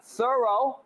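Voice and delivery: THOROUGH alone, high and soft, rising at the end; broken up. Shown as a demonstration. Co-host coaching his partner, THOROUGH broken off and lifted. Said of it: "Break it up".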